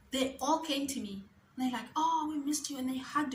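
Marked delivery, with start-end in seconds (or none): 2.0-2.8 higher-pitched imitated welcome; mildly gushing retold greeting; retold fond greeting. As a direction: greet a missed colleague, pitch lifted. Coworkers greeting her, retold.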